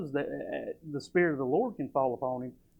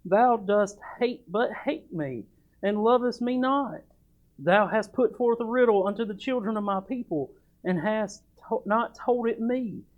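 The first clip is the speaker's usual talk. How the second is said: weeping wife; 6 semitones higher, 3 dB louder than usual. Acted. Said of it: "Samson's wife wept before him and said".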